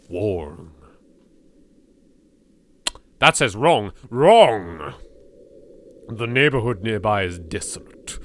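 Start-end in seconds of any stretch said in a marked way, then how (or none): 3.2-4.9 eerie shout. Acted. Reading game text in eerie voice.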